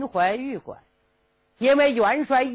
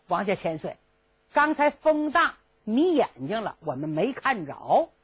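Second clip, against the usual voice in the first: sly soldiers; 2 semitones lower than usual. Acted. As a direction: play dumb politely. Soldiers feign ignorance.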